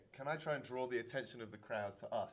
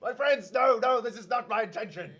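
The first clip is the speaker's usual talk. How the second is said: pleading; 9 semitones higher, 13 dB louder than usual. Acted. Character pleads with the crowd.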